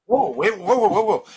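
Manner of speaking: high, loud excited whoa; hammed-up amazement, as if stopped in their tracks. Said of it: "if they go".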